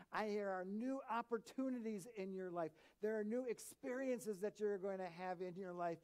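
a hint of God declaring what is to come; God promising. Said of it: "He says".

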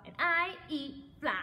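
slow, loud boast with swooping pitch; big-mouthed frog announcing himself loudly; shouted. A narrator's reading. Frog introduces himself to another animal, shouted. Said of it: "shouted the wide-mouthed frog".

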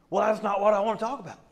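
quick, high-pitched protest; mock-indignant comeback; petulant retort. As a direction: object hastily, like a sulky kid. Retorting to God in acted exchange.

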